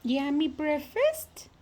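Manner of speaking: pet talk. Real, not acted. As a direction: coo at the bird with a rising lilt. Talking to pet birds.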